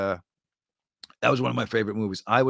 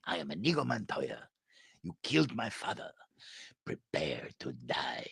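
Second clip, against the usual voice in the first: softer, ending in a hushed whisper; Inigo Montoya line again; 5 semitones lower, 11 dB quieter than usual. Retold or imitated. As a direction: hush it down to a threat. Inigo quote repeated.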